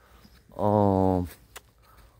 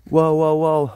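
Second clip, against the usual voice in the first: loud, higher, astonished exclamations; excited wow; 4 semitones higher, 7 dB louder, slower than usual. Real, not acted. Hiker showing viewers the steep slope, loud and amazed.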